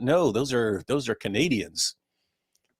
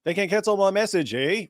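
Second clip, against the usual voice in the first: raised, sing-song mock Canadian rap lines; mock Canadian rapper; 7 semitones higher than usual. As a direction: ham up a Canadian accent with eh. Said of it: "You call the song Facts, eh?".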